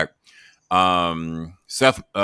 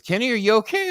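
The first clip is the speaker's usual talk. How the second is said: voicing Russo. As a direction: stretch it out like a thrilled host. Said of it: "And he says".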